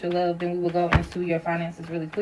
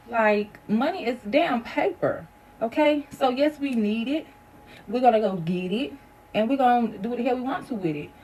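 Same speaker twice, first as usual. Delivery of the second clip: higher-pitched, fed-up rant; pissed-off venting; 4 semitones higher than usual. Real, not acted. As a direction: vent your frustration about attitudes to money. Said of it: "I just really get so pissed off".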